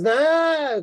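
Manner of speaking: drawn-out high mock objection. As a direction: pitch it way up and stretch it. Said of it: "raises his voice and goes".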